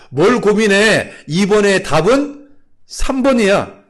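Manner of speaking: loud, high, drawn-out examiner voice; insistent examiner. Acted. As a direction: urge it loudly, stretching the words. Examiner urging the test taker.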